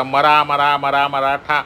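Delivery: "मरा" repeated evenly until it becomes "मराठा"; run-together pronunciation. Shown as a demonstration. Showing how Mara becomes Maratha, syllables run together. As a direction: chain "मरा, मरा" straight into "मराठा", level pitch. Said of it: "असा उच्चार झाला".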